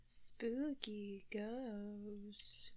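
slow breathy whisper. Pretend. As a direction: whisper it, drawn out. Imitating Moira's spooky.

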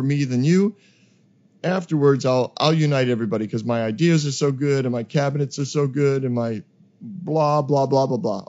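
loud, pompous campaign promises; boastful politician. Retold or imitated. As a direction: puff yourself up like a politician. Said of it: "They'll say".

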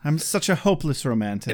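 fast whispered mock-swoon aside; sarcastic whisper. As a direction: whisper it as a smug joke. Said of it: "ironic aside after villain quote".

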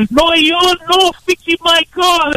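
high-pitched mock Asian accent; high, broken-English Asian accent impression. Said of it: "came in speaking perfect English. He's like".

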